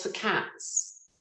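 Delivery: breathy whisper of the title. Real, not acted. Recalling her worst audition, whispers it. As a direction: drop to a hushed whisper for the name.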